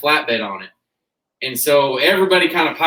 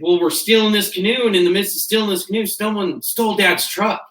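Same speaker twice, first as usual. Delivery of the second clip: higher, hurried worried call, half-joking; imitating panicked brother; 6 semitones higher than usual. Brother calls in a panic about the stolen truck, mock-frantic. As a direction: mimic a frantic brother on the phone. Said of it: "Justin calls in a panic".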